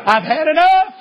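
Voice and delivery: put-on preacher reaching his limit with disruptive boys, angry outburst; fed up. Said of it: "I got in the flesh".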